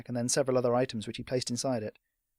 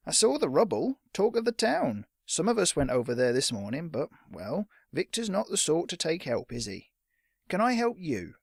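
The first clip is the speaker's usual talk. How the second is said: a higher, prying village shopkeeper; a hint of a nosy storekeeper; lightly voiced shopkeeper; 5 semitones higher than usual. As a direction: fish for gossip, sly and polite.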